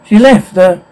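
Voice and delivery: understated flustered stammer; acted stammering. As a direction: stumble over the words, mildly panicked. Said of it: "Claire stammer-, stammers".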